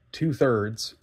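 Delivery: usual speaking voice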